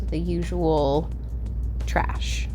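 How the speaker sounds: breathy joking whisper; whispered aside. Real, not acted. Whispered joke about usual stock.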